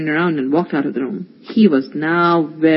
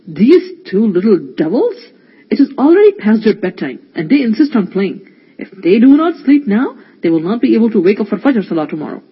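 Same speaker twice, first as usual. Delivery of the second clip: complaining; 2 semitones higher, 3 dB louder than usual. Acted. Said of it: "complained Faraz".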